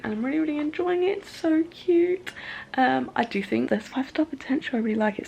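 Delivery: talking around a retainer; slightly lisped retainer speech; wearing a retainer. Real, not acted. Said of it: "Sorry, I've got my retainer in, so sorry if I sound funny".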